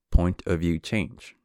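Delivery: slow and measured; slow, deliberate. Shown as a demonstration. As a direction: announce each word slowly. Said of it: "I'll pause and say these words".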